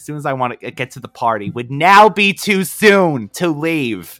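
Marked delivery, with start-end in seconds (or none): 1.5-4.2 slowly stretched out, hopeful; slow, drawn out. Pretend. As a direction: draw out the words slowly. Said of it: "That would be me".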